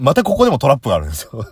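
fast, loud exasperated complaint. Real, not acted. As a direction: rattle it off, fed up.

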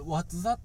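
"What's that?" in English sounds with a rise; earnest English pronunciation. Shown as a demonstration. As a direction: try "What's that?" for real, not katakana. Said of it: "これを俺本気で言うんて". (「What's that?」を本気の英語発音で)

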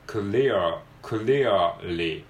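clearly with the R after "clea" sounded out, slow and deliberate; firmly pronounced R. Shown as a demonstration. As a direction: give clear and clearly a full, firm R before the final L. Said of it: "しっかり発音して".

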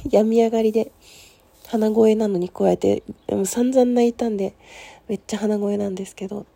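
stuffy nose after crying; nasal voice. Real, not acted. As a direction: talk through a blocked nose. (鼻声)

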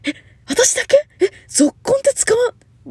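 shocked that ぞっこん is unknown, a high, loud squeal; shocked disbelief. Real, not acted. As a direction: cry out as if the word just died. Shocked nobody knows the word.

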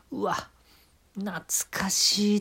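breathy, slow murmur of nostalgia; nostalgic whisper. Acted. Comic tasting wings, whispering nostalgically. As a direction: sigh it out as if remembering old times. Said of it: "って、なんかもう深みが出るでしょ".

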